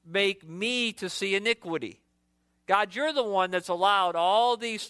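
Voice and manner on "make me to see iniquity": indignant question. Shown as a demonstration. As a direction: press God for an answer. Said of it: "Verse three".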